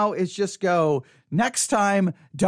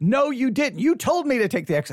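yelling, higher pitch; 4 semitones higher than usual. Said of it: "so now I'm yelling at you".

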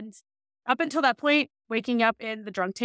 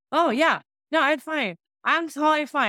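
mock drunk slurring, much higher pitch; 4 semitones higher than usual. Retelling her answer to the manager shaking her, imitating drunk slurring. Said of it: "I'm like slurring".

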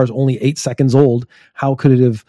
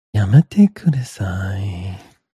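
low, put-on anime-fan ASMR voice; 5 semitones lower than usual. Joking about switching to an asmr channel: put-on weeb asmr voice. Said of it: "a really weeb A S M R channel".

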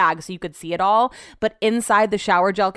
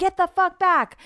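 screamed, very high-pitched shriek; 12 semitones higher than usual. Retelling screaming at two people to get back: imitating own past screaming. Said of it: "I'm screaming at both of them to get back".

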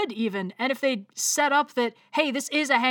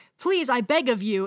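put-on formal, pleading voice. Retelling a scene where Jupiter begs Balem: imitating Jupiter's formal begging. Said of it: "begging him not to kill her family".

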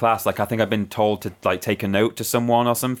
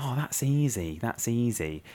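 mock under-the-breath muttering, much quieter, slower; 9 dB quieter than usual. Recalling new kids reacting to the teacher's plan, imitating kids muttering under breath. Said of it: "saying under their breath".

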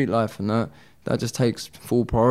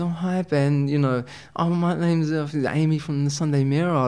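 put-on voice of a young female; 5 semitones higher than usual. Retelling a phone call from a caller at the Sunday Mirror, imitating Amy's young female voice. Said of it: "it's like a young female voice".

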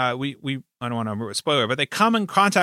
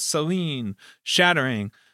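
ordinary talk, nothing marked

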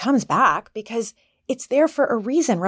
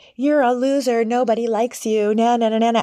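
put-on play-acted mean cartoon little-girl taunting jeer. Retelling what a cartoon girl in her head says: imitating a taunting inner voice. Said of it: "And she's taunting me".

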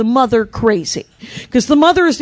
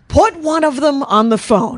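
put-on sharp, barking tone, kept mild; 2 semitones higher than usual. Retelling a scream heard over the phone: imitating Nancy screaming. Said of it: "I could hear her over the phone scream".

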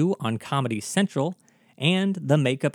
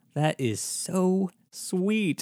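teary, high, very slow, drawn-out speech; 5 semitones higher, 3 dB quieter than usual. Host telling listeners to share the episode with their best friend, touched and tearing up. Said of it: "I'm tearing up just thinking about it".

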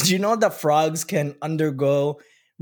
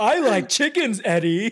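high, slow, drawn-out cartoon-character voice; 7 semitones higher than usual. Talking about the cartoon with another speaker, doing an Ed, Edd n Eddy cartoon voice. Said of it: "I don't know why I like impressions".

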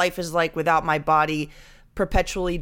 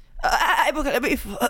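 mocking put-on sick voice, much higher pitch; 7 semitones higher than usual. Podcast host imitates her co-host after a coughing fit, imitating Jenny's sick voice. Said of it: "I sound like a sheep with tuberculosis".

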